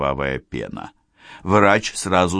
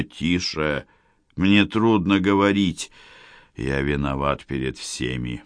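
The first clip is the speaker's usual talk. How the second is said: put-on dying old man; 2 semitones lower than usual. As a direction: confess with failing strength. Dying grandfather confession.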